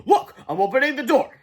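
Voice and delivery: high, loud sing-out taunt. A narrator's reading. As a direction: show off defiantly. Teacher taunts boys with door.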